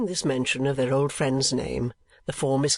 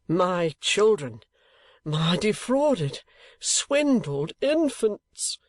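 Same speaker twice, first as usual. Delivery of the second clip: slow, high lament breaking to a whisper; father lamenting his cheated children, hushed anguish; anguished cry; 6 semitones higher, much slower than usual. A narrator's reading. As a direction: wail it under your breath. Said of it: "cried Mister Kenwigs".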